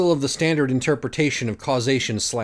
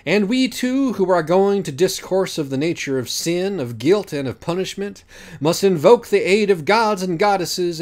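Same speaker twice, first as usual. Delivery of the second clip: grand invocation; 5 semitones higher than usual. Acted. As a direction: declaim it like an ancient philosopher. The speaker delivers Platonic invocation.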